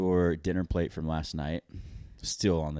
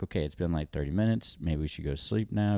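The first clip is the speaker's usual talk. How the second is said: gentle suggestion; 3 dB quieter than usual. Retold or imitated. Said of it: "eventually I'm like".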